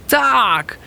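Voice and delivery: high, bright cry of yes; eager shout. Acted. The friends shouting yes to the owl's offer, high cry. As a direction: shout it all together. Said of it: "krzyknęli wszyscy".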